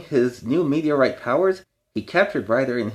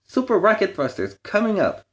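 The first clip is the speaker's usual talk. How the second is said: higher, gleeful announcement; excited villain boast; 9 semitones higher than usual. A narrator's reading. Harold powers up his robot, higher gleeful boast. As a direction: crow it out with glee.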